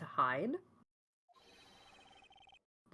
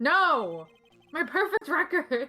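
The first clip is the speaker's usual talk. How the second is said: dismayed cry; 6 semitones higher, 5 dB louder, slower than usual. Acted.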